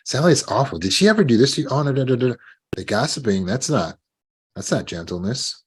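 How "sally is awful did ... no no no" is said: lightly voiced catty gossip, a bit higher. Coworker gossiping about Sally behind her back, lightly catty. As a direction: dish the dirt with relish. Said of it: "talk behind that person's back".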